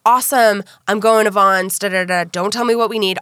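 mildly imitating an eager husband; retold can-do eagerness; gung-ho. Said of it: "he was so gung-ho".

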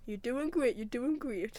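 lightly voiced Geordie impression; a touch of Geordie double-act patter; Ant and Dec. Showing the co-host an easy impression, lightly done Geordie. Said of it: "I can just do Ant and Dec".

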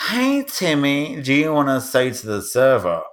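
lightly put-on, drawn-out singsong to a child; mock coaxing parent. Parent prompting little Timmy to order from the server, mock coaxing.

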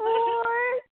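high, loud, stunned disbelief; shocked what. Real, not acted. Friend hearing about the breakup, stunned. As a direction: gasp out the word in shock.

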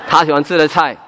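a quiet breathy laugh into the words; soft laugh. Real, not acted. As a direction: chuckle at your own joke about the stewed pork. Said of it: "laughs at own joke". (轻声笑着说)

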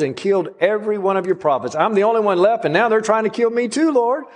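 preacher mimicking a self-pitying Elijah, whining; woe is me whine. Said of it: "that woe is me thing".

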